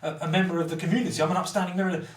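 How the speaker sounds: mocking his own arrogance; pompous self-important rant. Recalling his rant at the ex, mocking self-important tone. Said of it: "At the time, I was like".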